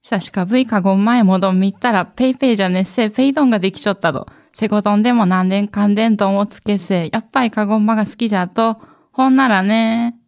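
鹿児島弁のCMナレーション, 「ペイドンができちょったど」を語尾を落として速く; Kagoshima dialect CM. Pretend. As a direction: rattle off the Kagoshima dialect line fast like a local ad. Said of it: "なんて言ってるんですか？ 久しかぶい". (鹿児島弁で早口のCM読み)

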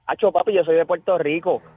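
lightly imitated Puerto Rican accent; quoted with Puerto Rican street familiarity; like a famous salsa singer, very Boricua. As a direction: retell it in a thick Boricua tone. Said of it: "con un tono bien boricua".

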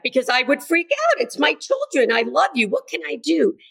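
acted parental panic, pitch jumping high; freaking out. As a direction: plead like an alarmed mother. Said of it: "that's our immediate reaction".

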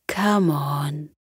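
whispered coaxing. Acted. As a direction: whisper it gently to coax. Fairy coaxing.

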